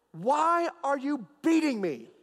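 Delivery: high, slow, drawn-out donkey question; talking donkey. Retold or imitated. Donkey confronting Balaam over the beating, slow high-pitched protest. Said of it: "the donkey turns and says".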